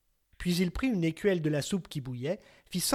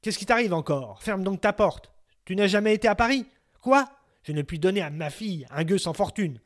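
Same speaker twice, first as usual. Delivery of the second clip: cold king; 5 dB louder than usual. Acted. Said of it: "l'accueillit froidement".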